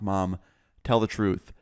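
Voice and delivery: gentle retold coaxing, with careful pauses; mildly tentative, nice questioning; asking real nicely. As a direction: coax the truth out of mom tactfully. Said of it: "asked her one time real nicely".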